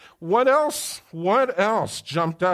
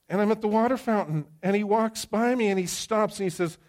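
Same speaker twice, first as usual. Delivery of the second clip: excited storytelling; 7 semitones higher than usual. Retold or imitated. Building suspense in retold story.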